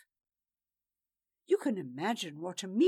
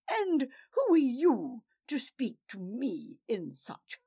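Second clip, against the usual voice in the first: louder haughty rebuke; louder indignant question; indignant challenge; 3 semitones higher, 5 dB louder than usual. Acted. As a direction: put him in his place. Raven turns on man.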